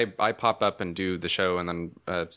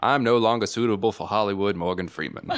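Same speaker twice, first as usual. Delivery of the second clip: Morgan Freeman impression; 4 dB louder than usual. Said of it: "I'll imitate his imitation".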